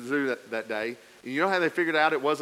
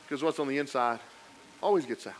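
quieter, lower and intimate; soft emphatic point; 3 semitones lower, 6 dB quieter, faster than usual. Acted. Pastor stating the lesson, quiet and intimate. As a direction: drop the voice to make the point.

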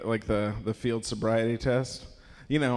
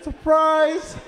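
high, loud, hammed-up cheer; musical-style surprise; 7 dB louder than usual. Family caught by dad, acting a chorus-like shout. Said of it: "It was like a musical".

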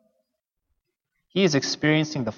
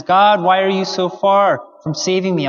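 raised, louder pleading quote; retold cry; 4 semitones higher, 4 dB louder than usual. Preacher quotes the cry of Psalm twenty-two, moderately raised cry. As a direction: call out to God, as if reciting a lament. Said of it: "is a cry that says".

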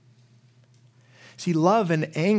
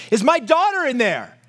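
higher, desperate plea from a frantic father; a preacher's mildly acted yell, pitched up; retold frantic scream; 8 semitones higher, 3 dB louder than usual. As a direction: cry it out like a father at the police line. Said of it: "he starts screaming".

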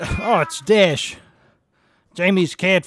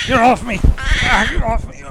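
high, loud panicked yell; frantic yelling; 9 semitones higher, 6 dB louder than usual. Acted. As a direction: shout to shake off an attacker. Fighting off an attacker.

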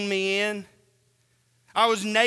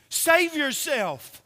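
mocking soldiers; 5 semitones higher, slower than usual. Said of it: "The soldiers also mocked him".

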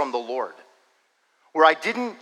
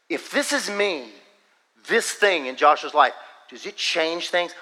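emphatic divine word; 3 semitones higher than usual. Retold or imitated. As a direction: press the question home phrase by phrase. Repeats the word with more force.

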